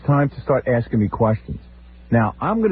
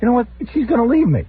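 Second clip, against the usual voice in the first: mock worried whine; 12 semitones higher than usual. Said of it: "I'm like".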